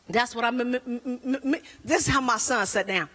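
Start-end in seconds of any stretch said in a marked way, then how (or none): 0.1-1.6 mock stutter jammed on "m"; repeated "m-m-m", never finishing the word. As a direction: imitate a man unable to get past "m". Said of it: "My husband stutters".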